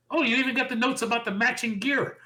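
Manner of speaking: put-on excited teenage fangirl, pitched high; Bayley. Wrestler delighted at her partner's matching gear, excited fangirl. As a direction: gush in a high, giddy fangirl voice. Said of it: "She seemed like that excited teenage girl fan".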